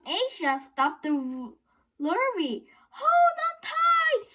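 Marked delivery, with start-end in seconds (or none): 2.9-4.3 slow, high, loud call; shouted. A narrator's reading. Asia shouting to passengers in the lorry. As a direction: bellow the warning over the engine. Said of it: "she shouted".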